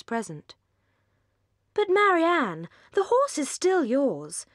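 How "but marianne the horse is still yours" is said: Willoughby pleading. A narrator's reading.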